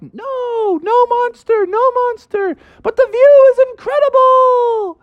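high, far-carrying call back; hollered reply. Acted. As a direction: holler it down from the mountaintop. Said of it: "they hollered down".

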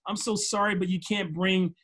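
mock polite apology; imitating staff who are only being nice; lightly put-on insincere "so sorry"; fake-nice customer service. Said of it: "They're just saying that just to be nice".

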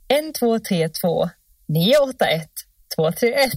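put-on number read in Stockholm accent. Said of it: "Så säger jag det på stockholmska också".

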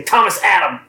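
lightly voiced mom calling out a full name; a hint of a cross mom; scolding mom. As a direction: imitate a mother's mild telling-off. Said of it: "That's what my mom would say".

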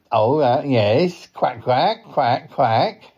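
mild cartoon duck with questioning quacks; lightly voiced duck. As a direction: nod along as a polite duck. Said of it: "he is a duck".

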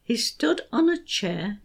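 put-on beats marked on young, teddy, Bill; stressed rhythm. Shown as a demonstration. Teacher showing parents the beat, stressed. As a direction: tap out the rhythm of "There was a young teddy named Bill". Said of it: "Here's how it works".

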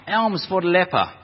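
lepers crying out. Retold or imitated. Group of lepers begging passers-by, mock crying out. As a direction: lightly imitate beggars calling for alms. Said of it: "they're crying out".

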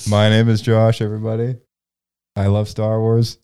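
lightly played meeting introduction; mock support-group confession. Host introduces himself to the Star Wars group, mock confession. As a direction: own up to it like a group member, in jest. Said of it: "this is A A for Star Wars".

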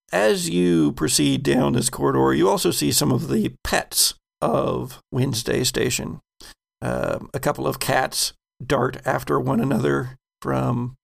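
measured scene-setting, pausing between phrases; game master narration. Acted. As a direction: set the scene for the players unhurriedly.

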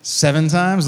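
mildly cocky question, falling at the end; a little cocky. Acted. Peter repeating his offer to Jesus, mildly cocky. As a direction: put it forward with a touch of cockiness. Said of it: "he gets a little cocky here".

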